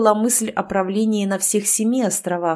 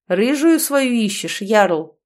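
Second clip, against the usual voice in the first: окрик; 4 dB louder, slower than usual. Acted. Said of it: "крикнул ему приятель".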